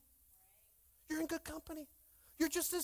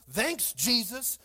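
slow mock gratitude, lifting at end; sarcastic thanks; 4 dB louder, much slower than usual. Pastor sent to little church, sarcastic thanks. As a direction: drag out the thanks. Sarcastic complaint about workload.

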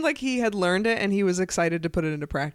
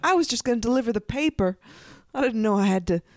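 put-on wholesome 1950s kid; 3 semitones higher than usual. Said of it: "it's just a small boy".

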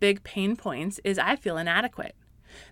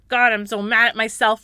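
a touch louder, frustrated at oneself; mock angry prayer; 5 dB louder than usual. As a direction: say it like a fed-up confession.

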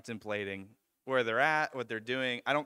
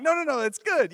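high, loud rush of reassurance; animated retold "don't worry"; hasty reassurance; 13 semitones higher, 9 dB louder than usual. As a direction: act out talking a scared friend down, pitched way up. Calming a terrified housemate in story.

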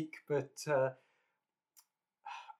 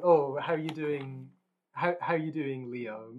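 mocking a careless speaker; 6 dB louder, slower than usual. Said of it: "it's like them saying".

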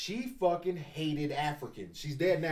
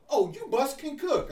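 grandma voice; 9 semitones higher, slower than usual. Retold or imitated. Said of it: "she was also racist towards me".

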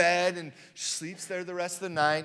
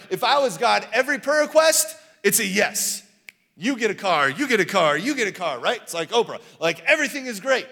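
hammed-up Oprah giveaway; 5 dB louder than usual. Playing generous god like Oprah.

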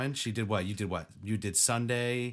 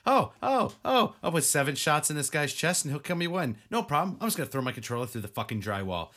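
mock rage; 4 semitones higher, 4 dB louder, faster than usual. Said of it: "I was like".

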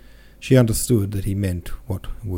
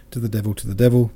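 fast exasperated; 2 semitones higher, 4 dB louder, much faster than usual. Acted. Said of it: "cried the old Count".

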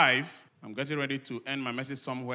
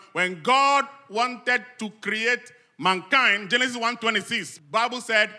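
raised, emphatic preacher delivery; higher-pitched, forceful pulpit teaching; preaching; 6 semitones higher, 7 dB louder than usual. Real, not acted. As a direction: drive each question home to the congregation. Preaches, questioning the congregation.

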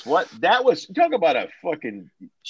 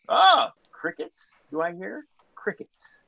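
mocking crickets; 6 semitones higher, slower than usual. Real, not acted. Mocking silence after challenge.

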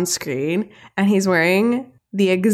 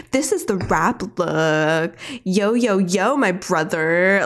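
slow, drawn-out mock rap-speak; lightly hammed-up cringey hype; cringey sales guy; slower than usual. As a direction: imitate a sales guy trying too hard to be cool. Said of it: "like, very cringe".

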